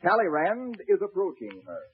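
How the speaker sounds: reading introduction. Acted. Announcer introduces nephew's Napoleon play, narrating. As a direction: read out a play's scene setting. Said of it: "you just read the introduction".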